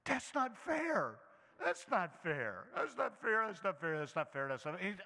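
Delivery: a hint of a complaining teen, repeating insistently; mock whining teenage daughter. Teenage daughter always protesting to her parent, lightly mocked whining. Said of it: "she is always saying".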